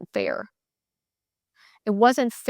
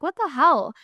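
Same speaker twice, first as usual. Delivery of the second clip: higher, slow, fed-up outburst; mock exasperated rant at herself; 4 semitones higher, slower than usual. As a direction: vent it slowly and higher, sick of it all. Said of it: "I'm like".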